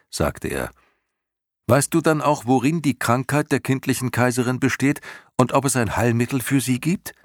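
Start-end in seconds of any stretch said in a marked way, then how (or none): 1.7-7.1 put-on high, loud young boy challenging; high loud boy, straining against the old creature; determined boy. A narrator's reading. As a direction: push back hard, young and defiant. Atreju presses his question.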